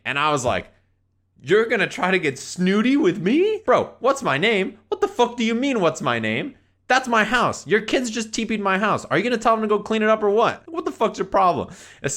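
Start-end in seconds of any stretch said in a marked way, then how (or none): 1.4-11.7 high, incredulous rant; re-enacted heated telling-off; outraged confrontation. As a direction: fire back at him, voice climbing in indignation. Retold angry row with dad.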